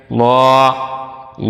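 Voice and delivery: ল said as a full, heavy sound, not as a thin লা; heavy lam. Shown as a demonstration. Teacher shows students the heavy ল in Allah, full sound. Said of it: "উচ্চারণ কিন্তু ল হবে, লা না".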